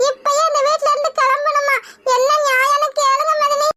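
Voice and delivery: weepy appeal to the family for fairness; tearful complaint. Acted. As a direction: plead through tears to the sister-in-law. Wife tearfully complains to sister-in-law.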